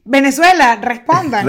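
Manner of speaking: loud call to the listeners. Real, not acted. Host loudly calling on Venezuelan listeners. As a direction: shout it out to the whole country.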